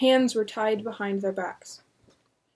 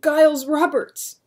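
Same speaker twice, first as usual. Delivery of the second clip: shocked; 6 semitones higher, 8 dB louder than usual. Acted. Shocked recognition.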